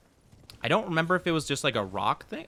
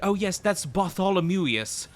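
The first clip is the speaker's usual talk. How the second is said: mock know-it-all; 6 semitones higher, slower than usual. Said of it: "and it's like".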